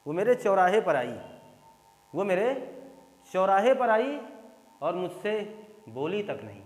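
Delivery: teacher stresses the phrase in broken beats; stressed example. Shown as a demonstration. Teacher demonstrating emphasis for students, pressing each word. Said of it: "क्यों कह रहे हो बोली तक नहीं?".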